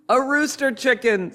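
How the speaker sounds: put-on high-pitched, excited young lamb; excited little lamb. A narrator's reading. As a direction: cry it out like a thrilled lamb. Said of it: "said the youngest of the lambs".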